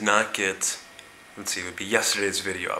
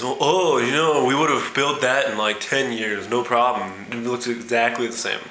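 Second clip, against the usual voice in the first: boastful American tourist. Retold or imitated. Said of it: "The American says".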